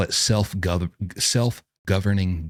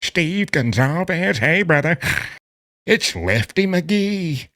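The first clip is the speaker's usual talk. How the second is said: high, slow hammed-up thug voice; mock inmate phone call; 3 semitones higher, slower than usual. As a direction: ham up a dumb inmate calling on a recorded line. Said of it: "I'm like".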